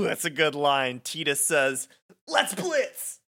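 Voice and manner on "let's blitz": high-pitched battle cry, acted; rallying cry. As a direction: launch the team into the game. Player's rallying cry before the game.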